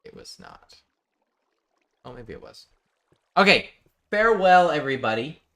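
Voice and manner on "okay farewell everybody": grand farewell. Pretend. Grand sign-off to viewers.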